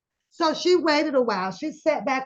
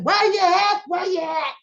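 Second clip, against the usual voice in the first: mock screaming; 8 semitones higher than usual. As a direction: call out like searching the lot. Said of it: "wanna start screaming".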